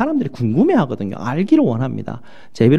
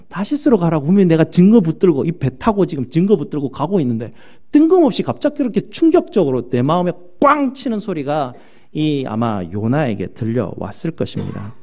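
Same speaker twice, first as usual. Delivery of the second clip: normal talking voice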